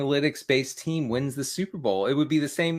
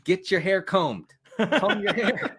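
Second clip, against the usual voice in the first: quoting a rapper through laughter, slowing down; slow, laughing bark of an order, comb rising high; laughing quote of a rapper; 5 semitones higher, slower than usual. Retold or imitated. Host retelling a movie line to co-host, laughing mock command. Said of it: "he says".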